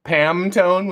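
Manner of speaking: "Pamtone" slowly, stressing the m. Shown as a demonstration. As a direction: say "Pamtone" with a clear m. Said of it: "with an M".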